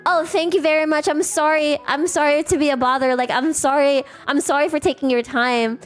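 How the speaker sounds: чрезмерно вежливая просьба, лёгкое подражание; извиняться снова и снова, почти заискивая; overly polite apology. Retold or imitated. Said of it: "I always do this".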